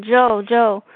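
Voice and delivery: patient in a hospital bed weakly calling to a passing friend. Retold or imitated. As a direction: call his name weakly, trying to get his attention. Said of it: "I yelled to him, but my voice was really weak".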